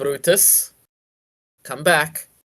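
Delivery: motherly mom voice. A voice behind the departing Brutus speaks up, in a mom voice. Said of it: "he recognizes mom voice".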